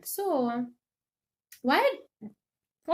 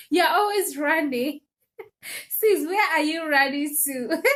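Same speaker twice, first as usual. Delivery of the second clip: giggling, teasing herself about always running; laughing through the words; laughing tease; 4 semitones higher, 4 dB louder than usual. Real, not acted. Scolding herself about always running, laughing.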